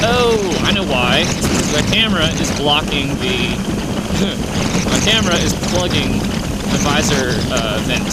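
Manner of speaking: loud surprised "oh, I know why"; sudden realization. Real, not acted. Realizes camera blocks visor vent.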